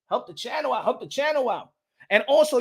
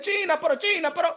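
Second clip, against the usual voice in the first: retold complaint; 3 semitones higher, 4 dB louder than usual. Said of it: "I said".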